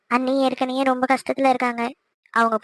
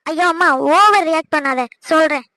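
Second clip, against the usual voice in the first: louder, fed-up plea to calm down; exasperated; 6 dB louder than usual. Acted. Daughter telling fussing mother to stop overreacting, exasperated. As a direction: roll your eyes and push back at her.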